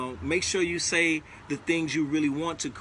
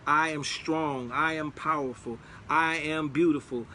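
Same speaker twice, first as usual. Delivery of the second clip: spoken affirmations. Shown as a demonstration. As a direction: declare each one like a truth about yourself. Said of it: "just record those things".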